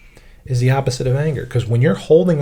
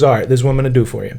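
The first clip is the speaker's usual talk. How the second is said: mobster Buddha; much faster than usual. Retold or imitated. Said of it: "like when you go see Tony Soprano".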